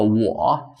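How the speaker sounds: 我 demonstrated with a dipping tone; third tone. Shown as a demonstration. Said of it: "third tone".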